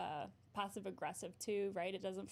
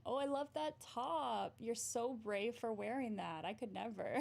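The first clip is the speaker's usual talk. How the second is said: sarcastic compliment. Retold or imitated. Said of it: "Or for another one".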